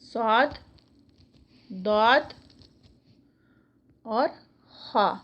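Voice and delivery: each of "صاد", "داد", "خا" alone with a thick, emphatic sound; heavy letters. Shown as a demonstration. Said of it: "اس کو موٹا پڑھا جائے گا". ("صاد"، "داد"، "خا" موٹی آواز میں)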